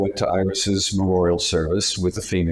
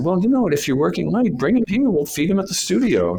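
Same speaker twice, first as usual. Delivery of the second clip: eager pitch; 11 semitones higher, faster than usual. Retold or imitated. Eager boss pitching the job.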